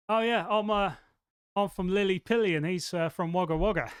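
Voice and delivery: hammed-up bad Australian accent; terrible Australian accent. Lying to a stranger in the spa, terrible Australian accent. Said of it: "doing a terrible Australian accent or impression".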